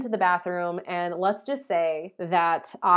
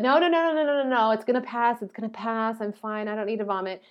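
frantic refusal; 2 semitones higher than usual. Retold or imitated. Arguing with inner voice.

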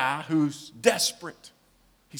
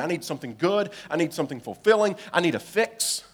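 pleading demand; 2 semitones higher, 7 dB louder, faster than usual. Acted. Voicing our demands to God.

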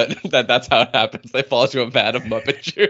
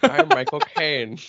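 Michael Caine impression; 3 semitones higher, slower than usual. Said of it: "That's it. That's all I got".

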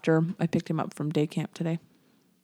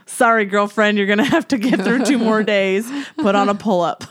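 teasing mom; 5 dB louder than usual. Retold or imitated. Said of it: "I was like".

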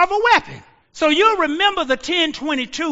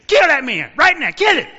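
Pharaoh's command; 3 semitones higher, 6 dB louder than usual. Retold or imitated. Pharaoh ordering an execution.

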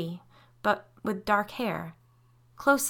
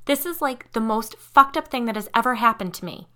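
high, loud shocked exclamation; exclaimed; 5 semitones higher, 7 dB louder than usual. A narrator's reading. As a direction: blurt it out like an overwhelmed teen. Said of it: "Curie exclaimed".

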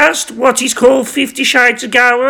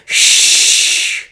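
shushing. Acted. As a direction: hush him gently. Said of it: "But she just said".

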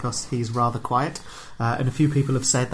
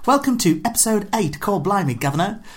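hammed-up Cockney, pitched higher; higher, playful fake Cockney accent; mock Cockney accent; 6 semitones higher than usual. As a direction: put on a jokey London Cockney voice. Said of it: "how long I can keep this accent up".

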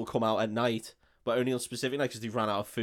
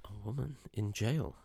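trailer voice; much slower than usual. Pretend. Mock movie-trailer narration.

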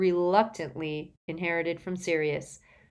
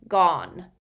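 louder, falling one-word confession; anguished elf; 6 dB louder than usual. A narrator's reading. Elf confesses the loss, anguished croak. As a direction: blurt it out as the elf.

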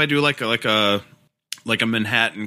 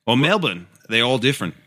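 put-on Aussie accent; Australian accent. Aussie asking which part of Australia, Australian accent. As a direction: list the places like an Aussie. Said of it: "We could do Australian".

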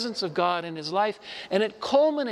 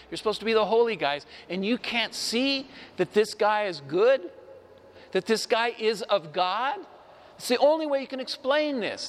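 fast, higher, heated rebuke; furious retort; 3 semitones higher than usual. Retold or imitated. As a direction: rattle it off in hot indignation. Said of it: "he's furious with them".

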